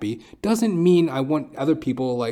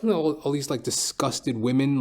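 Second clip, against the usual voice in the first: ordinary delivery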